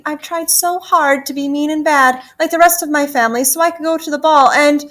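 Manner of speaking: anxious pleading. Acted. Gertie pleads not to be eaten.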